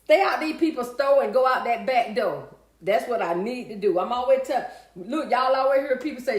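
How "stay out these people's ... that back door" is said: loud, punched-out rhyming slogan; emphatic rhyme. Real, not acted. Streamer repeating her accidental rhyme to viewers, loud and emphatic. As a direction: belt out the rhyme proudly.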